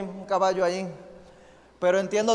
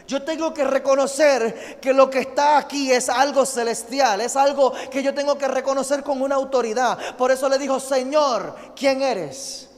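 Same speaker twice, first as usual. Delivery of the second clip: raised, urgent preacher's voice; preaching at full force; 5 semitones higher, 4 dB louder than usual. Acted. Pastor urging the congregation to kneel before God, full-force preaching. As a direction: drive the point home to the church.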